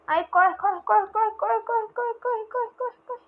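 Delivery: rising, frantic urging to run; panicked. Real, not acted. Being shot at, panicking.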